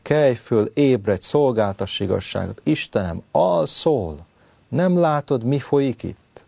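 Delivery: acted urgent challenge to God, pitch jumping on the final question; urgent plea. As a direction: plead as if rousing someone who sleeps. Acted protest to God like David.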